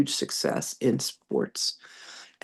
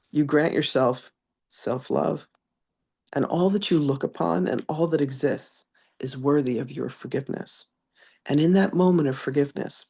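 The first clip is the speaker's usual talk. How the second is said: measured, gentle reading of a spiritual message; channeled message reading. Acted. Reading Magdalene's message to beloved ones, gentle spiritual address. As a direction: read it like a loving message from beyond.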